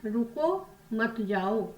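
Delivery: slow, stretched रुको, then मत जाओ as one unit; pause after रुको. Shown as a demonstration. Teacher recalling the first sentence for pupils, pause after रुको. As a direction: break after रुको, keep मत जाओ together. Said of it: "पहले वाक्य में क्या कह रहे हैं".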